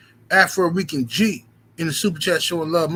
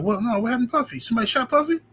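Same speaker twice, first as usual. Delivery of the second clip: mock shock; 7 semitones higher than usual. Friend's gossip, acted shocked reply.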